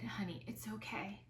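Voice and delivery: a tender unvoiced reassurance; soft comforting whisper. Husband comforting his grieving wife, whispered gently. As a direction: hush it out gently, like calming someone in tears.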